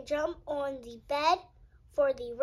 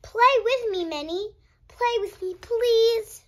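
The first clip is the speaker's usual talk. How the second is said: high, pleading little voice; begging child; 7 semitones higher, 6 dB louder than usual. Acted. Freddy begging Minnie to play, high and pleading. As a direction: beg your friend to come play.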